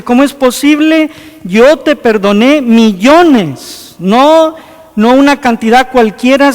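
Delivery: el rey regaña al siervo, más alto y más fuerte; indignación de rey que perdonó millones, subiendo el tono; reproche del rey. Retold or imitated. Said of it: "lo manda a llamar y le dice". (el rey reprende al siervo malvado con indignación fuerte)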